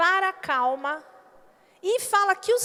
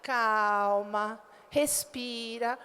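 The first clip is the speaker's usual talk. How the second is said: lower, slow gentle calming; soothing; 7 semitones lower, much slower than usual. Retold or imitated. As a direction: ease mom down gently. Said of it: "Mãe".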